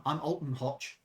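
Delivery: botched attempt at a German accent; slow, faltering stab at a German accent; wrong accent. Purser introduces himself, German accent gone wrong. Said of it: "Wrong accent".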